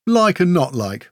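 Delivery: hedging, slightly lifted qualification; gently disagree; demurring. A narrator's reading. Murrock answering Grell's guess, demurring. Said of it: "Murrock demurred".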